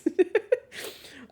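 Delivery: high, airy giggle; real high-pitched laugh. Real, not acted. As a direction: giggle at the absurd story. Amused by the nugget story.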